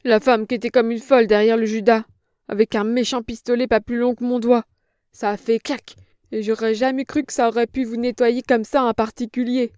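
put-on a cringing old woman protesting; frightened old crone. A narrator's reading. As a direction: plead like a scared old hag.

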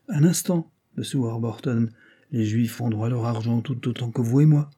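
sharp rebuke. Acted. The earl rebukes Warburton over the Jews, sharply. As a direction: put Warburton firmly in his place. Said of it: "répondit vertement le comte".

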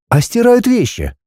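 put-on high, indignant young woman; girl's voice. A narrator's reading. Heroine questioning the dragon, high and puzzled.

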